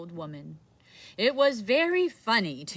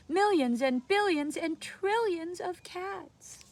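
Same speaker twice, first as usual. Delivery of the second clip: put-on upset old woman; 9 semitones higher than usual. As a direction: scold in a high old woman voice. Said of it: "she cried".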